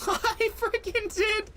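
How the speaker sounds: high, stretched cry of joy; thrilled disbelief. Real, not acted. Gamer shrieks as his rock shot lands. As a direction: yelp it out, can't believe the shot landed.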